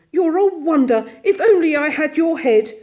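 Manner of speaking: high, loud, delighted admiration; excited praise. Acted. Mole praising Rat, excited and admiring. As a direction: gush with wonder at your friend. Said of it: "he cried".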